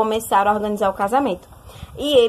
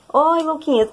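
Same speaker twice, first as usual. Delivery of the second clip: imitating a voice choked with tears, pitched higher; tearful choked voice; 6 semitones higher than usual. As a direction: say it as if holding back sobs, lightly acted. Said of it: "com uma voz embargada de choro". (voz embargada de choro, imitada)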